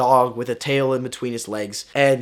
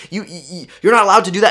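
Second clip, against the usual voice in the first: aunt yelling; 5 semitones higher, 6 dB louder, faster than usual. Retold or imitated. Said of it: "my aunt starts to yell at me".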